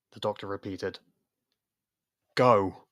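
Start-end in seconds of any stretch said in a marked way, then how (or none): 2.3-2.9 a sudden loud, forceful "Go"; urgent shout. Acted. Carla shouting at the Doctor to leave, loud urgent command. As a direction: push him out the door with one word.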